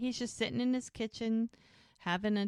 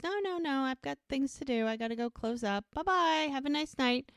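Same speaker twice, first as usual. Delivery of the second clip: hasty excuses; 7 semitones higher than usual. Acted. Acts Jack hastily excusing himself.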